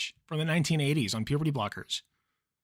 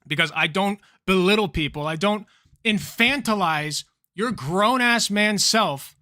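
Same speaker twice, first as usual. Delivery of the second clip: angry; 3 semitones higher, 5 dB louder than usual. Real, not acted. Heated rant at the debate opponent.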